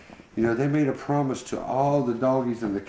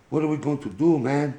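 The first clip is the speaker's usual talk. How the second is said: a higher, eager buddy voice; Louie's voice; 6 semitones higher than usual. Acted. Louie asking Boo what to do, voiced higher. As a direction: pitch up for Louie, worried and keen.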